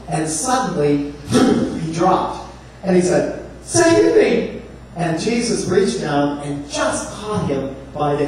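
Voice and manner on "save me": high desperate cry, much higher in pitch; cry for help. Acted. Peter sinking in the sea, crying to Jesus, high desperate shout. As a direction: yell it like you're going under.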